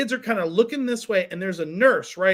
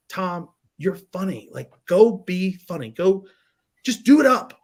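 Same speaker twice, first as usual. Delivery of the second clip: a hint of an army leader fired up; pep talk; 2 semitones lower than usual. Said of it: "one of those speeches".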